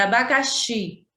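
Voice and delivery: abacaxi with a firm final xi; teacherly abacaxi, accent falling on xi; stress on final syllable. Shown as a demonstration. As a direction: show that xi is the strong syllable in abacaxi. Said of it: "a gente pronuncia com mais ênfase".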